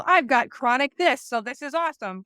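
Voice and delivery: sarcastic fake enthusiasm; facetious. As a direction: brag about it with tongue in cheek. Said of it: "if they're being facetious".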